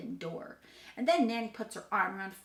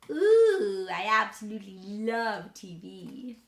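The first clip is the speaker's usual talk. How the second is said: excited; 8 dB louder, slower than usual. Real, not acted. Loving TV.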